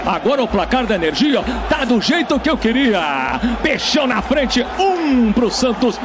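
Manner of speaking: excited play-by-play after a goal; explosive goal commentary. Real, not acted. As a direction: keep the goal energy going.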